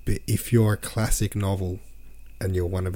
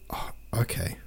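soft, whispered, deflated aside; weary resignation; 9 dB quieter than usual. Real, not acted. Reader faced with yet more redundant words, whispered resignation. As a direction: let it out under the breath, giving in.

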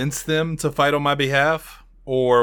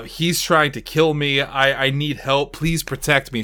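a touch of put-on begging; feigned begging. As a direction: lightly play up a helpless plea. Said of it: "She's, like, begging him".

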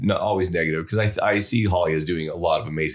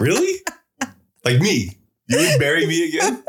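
higher, louder stunned disbelief; retold shock; 9 semitones higher, 3 dB louder than usual. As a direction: overplay the stunned husband. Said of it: "I'm like".

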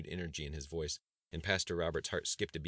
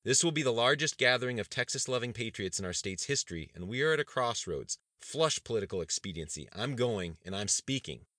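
louder, higher rousing declaration; rally the room by volume; loud rallying cry; 6 semitones higher, 7 dB louder than usual. Acted. Governor declares to the cabinet, loud and rousing. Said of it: "silencing dissent by sheer volume".

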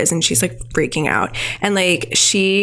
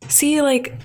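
insistent; 6 semitones higher than usual. Retold or imitated. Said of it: "they're like".

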